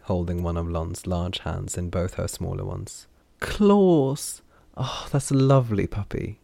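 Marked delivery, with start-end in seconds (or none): 3.4-6.4 very high, loud delighted cry; delighted squeal. Acted. Derry thrilled by the claws.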